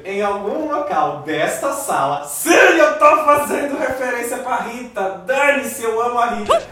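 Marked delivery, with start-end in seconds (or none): 2.5-6.6 excited shout. Real, not acted.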